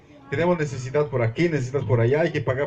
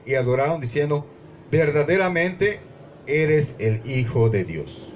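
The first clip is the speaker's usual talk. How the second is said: raised, earnest Bible reading voice; scripture reading. Acted. Pastor reading Matthew to the congregation, solemn reading voice. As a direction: read the passage to the church with conviction.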